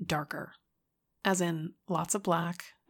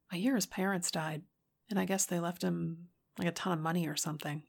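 a bit livelier. Acted. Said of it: "injected a little more life into her voice".

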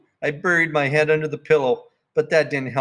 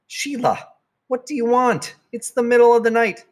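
groggy dad; 11 semitones higher, 3 dB louder than usual. Acted. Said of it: "Daddy woken at night".

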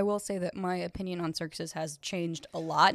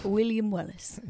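bad Scottish accent; slower than usual. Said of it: "That was a bad Scottish accent".

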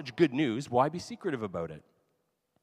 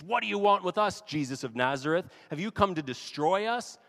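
raised, challenging voice of an evil spirit; mildly hammed-up hostile spirit; lashing out; 3 semitones higher, 4 dB louder than usual. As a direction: hurl it like an accusation. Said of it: "this spirit kind of lashes out at him".

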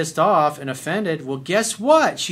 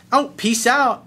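mock huffy exit; 8 semitones higher, 6 dB louder, slower than usual. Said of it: "and she goes".

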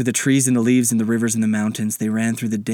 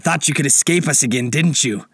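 mildly raised, gloating taunt; taunting pirate; 4 semitones higher, 3 dB louder than usual. Acted. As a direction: taunt the cornered escapees. Old pirate taunts the cornered kids.

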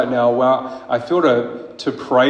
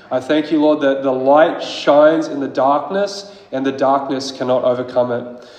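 fervent prayer; 2 semitones higher than usual. Acted. Preacher praying over the church against witchcraft, fervent. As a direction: declare it to God with growing force.

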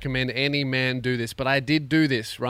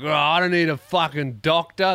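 louder, put-on tough-guy scoff; stubborn macho man; 4 semitones higher, 5 dB louder than usual. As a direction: brush off the doctor like a stubborn bloke. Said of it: "every man has that thing in them of like".

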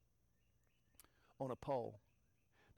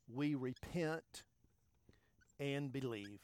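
slow emphasis; slower than usual. Shown as a demonstration. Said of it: "repeats key phrase".

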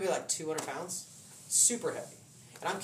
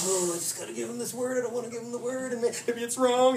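worried inner voice; 4 semitones higher than usual. Acted. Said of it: "that voice starts showing".

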